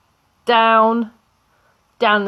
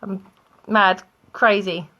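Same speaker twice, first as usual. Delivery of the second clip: mock crazy whoop; slower than usual. Shown as a demonstration. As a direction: act wild and unhinged for fun. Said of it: "mad as in".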